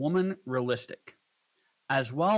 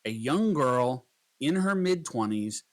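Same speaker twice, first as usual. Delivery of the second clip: slow prompt dictation. Shown as a demonstration. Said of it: "Let's try another prompt".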